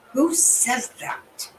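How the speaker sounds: slow, high, drawn-out incredulous question; stunned disbelief. Real, not acted. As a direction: let the disbelief stretch every word. Reacting in disbelief to a clip.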